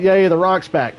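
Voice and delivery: high, loud mock cheering; hammed-up excited whoop; imitated fan cheer. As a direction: cheer like a crowd welcoming someone back. Voicing fans cheering a return.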